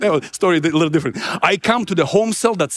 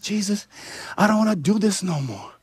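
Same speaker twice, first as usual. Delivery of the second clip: devastated; 5 dB quieter than usual. Retold or imitated. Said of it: "I was so devastated".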